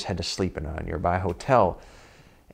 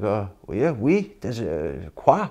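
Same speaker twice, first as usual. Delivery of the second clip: groggy French guy. Retold or imitated.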